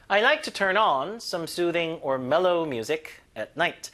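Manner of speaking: very slow, every word spaced; slow model sentence. Shown as a demonstration. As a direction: read it slowly for repetition. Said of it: "slow model sentence". (천천히 또박또박)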